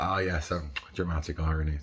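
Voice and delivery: ordinary talk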